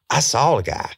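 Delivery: high, loud retold blurt; excited outburst. Suspect blurting his news to detective, excited. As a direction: burst out with it, pitch leaping up. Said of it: "He's so excited".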